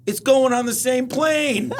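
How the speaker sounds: high, slow, laughing protest; laughing exasperation. Retold or imitated. Retelling comedian mocking overhead rule, slow laughing high protest. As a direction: plead through a laugh. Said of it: "he's like".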